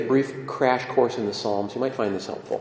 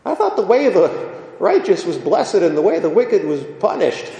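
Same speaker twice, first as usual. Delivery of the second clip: bewildered psalm writer; 8 semitones higher than usual. Acted. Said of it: "the psalm writer says".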